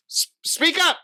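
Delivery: high-pitched exasperated call to speak up; exasperated plea. Retold or imitated. Viewer begging whispering actors to talk normally, exasperated plea. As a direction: plead upward in pitch, mock exasperation.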